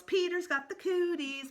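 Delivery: high, loud playground taunt; taunting yell. Acted. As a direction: yell it high to tease him. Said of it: "she yells".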